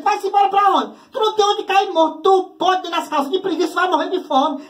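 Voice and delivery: high, scornful mom; mock the lazy kid's threat; mocking mother. Mother mocking her son's threat to leave home, high and scornful. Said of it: "A mãe dizia".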